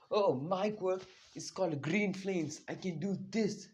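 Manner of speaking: lightly voiced girl, pleased with herself; proud girl showing off. Izumi boasting to Bakugo about her quirk, slow and high. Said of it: "and then she goes".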